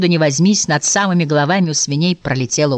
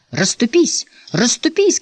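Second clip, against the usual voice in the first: raised pitch, without much volume; mild shout; 7 semitones higher, slower than usual. A narrator's reading. Mother clearing a way through the crowd, mild shout. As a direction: call out to clear the way, understated. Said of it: "кричала мать".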